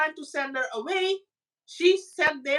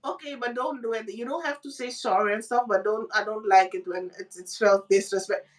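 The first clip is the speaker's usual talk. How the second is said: softened man; 5 semitones lower than usual. Retold or imitated. Man caves, retold as calmed down.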